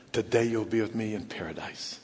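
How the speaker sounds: soft, low comforting voice; gentle reassurance. Retold or imitated. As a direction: quietly promise comfort to the dying. Voicing Jesus comforting the dying thief.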